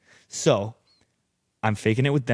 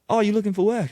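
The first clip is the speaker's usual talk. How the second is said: high, loud Australian questioner; Australian accent; 12 semitones higher, 5 dB louder, faster than usual. Retold or imitated. Hostel guys asking the traveler, imitated Australian accent. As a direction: imitate an Aussie offering a job, pitched up. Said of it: "I started doing an Australian accent".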